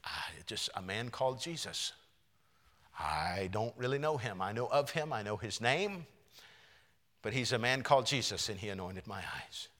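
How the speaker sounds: soft, unvoiced answer from the healed man; hushed healed man. Healed man answering his neighbors, hushed. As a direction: tell the neighbors quietly, almost a whisper.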